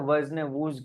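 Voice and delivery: "વઝ" with an a, then "વુઝ" with an oo; variant pronunciations. Shown as a demonstration. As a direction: contrast the vowels in "વઝ" and "વુઝ". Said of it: "pronunciation બધાના અલગ અલગ હોય".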